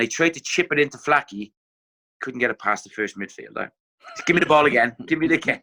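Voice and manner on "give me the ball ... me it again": impatient shout. Retold or imitated. Manager demanding ball, retold.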